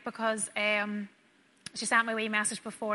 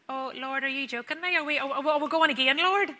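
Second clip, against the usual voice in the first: mock exasperated prayer; 3 semitones higher than usual. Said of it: "and I just thought".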